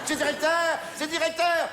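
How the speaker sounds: mock falsetto cry of Julien; Julien's high voice. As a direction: parody the shrill staff member catching a thief. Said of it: "Il a une voix très aiguë".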